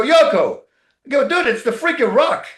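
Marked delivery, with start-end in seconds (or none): 0.0-0.6 fed-up yell. Retold or imitated. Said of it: "I get fed up". 1.3-2.5 loud and high, exasperated; fed-up yell. Retold or imitated. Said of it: "I get fed up".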